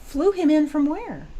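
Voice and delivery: high, loud, drawn-out disbelief; incredulous. Real, not acted. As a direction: ask it loudly, high and slow, in real astonishment. Host reacts incredulously to the story.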